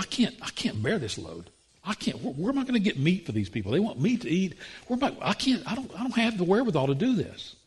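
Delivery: a hint of a desperate whine; whiny Moses. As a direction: moan like an overwhelmed leader. Moses complaining to God.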